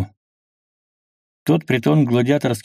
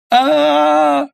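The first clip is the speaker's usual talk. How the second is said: high wild panicked scream; 6 dB louder than usual. A narrator's reading. Man attacked by the infected lets out a high panicked scream. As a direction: scream in terror.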